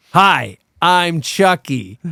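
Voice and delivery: lightly voiced killer doll, slow and drawn out; a hint of sinister Chucky, slow. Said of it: "in Brad Dourif's voice".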